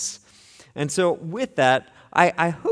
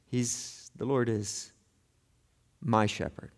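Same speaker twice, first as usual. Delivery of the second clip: "the Lord is my shepherd" said low and much softer, close and personal; quiet intimate; 6 semitones lower, 9 dB quieter, slower than usual. Shown as a demonstration. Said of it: "is not just the Lord".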